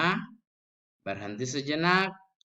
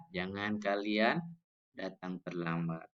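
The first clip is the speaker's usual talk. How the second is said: low-toned prohibition; 4 semitones lower, 7 dB quieter than usual. Shown as a demonstration. Teacher showing how not to forbid lateness, low-toned. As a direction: forbid weakly in a low, sinking voice. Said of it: "cuma nadanya rendah".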